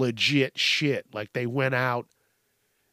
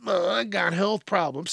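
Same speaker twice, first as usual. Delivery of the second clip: mock excuse-maker; 5 semitones higher than usual. Mocking excuse of mask refuser.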